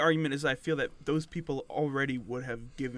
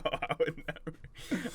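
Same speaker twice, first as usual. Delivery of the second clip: slow; 2 semitones higher, 6 dB quieter, much slower than usual. Real, not acted. Drawn out refusal.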